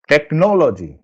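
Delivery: "technology" stressed on the second syllable. Shown as a demonstration. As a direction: lean long on "no" in "technology". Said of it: "I am stressing the sound".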